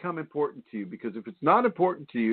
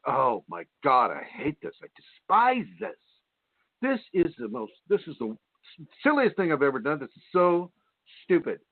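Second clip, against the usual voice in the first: mock disgusted complaining; 3 semitones higher than usual. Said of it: "receiving feelings like".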